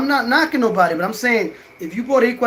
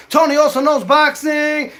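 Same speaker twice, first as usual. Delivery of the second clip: higher and louder, shouting Tony Also Knows Boxing; channel name shout; 6 semitones higher, 4 dB louder than usual. Real, not acted. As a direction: belt out your channel name like a catchphrase. Shouting his channel catchphrase.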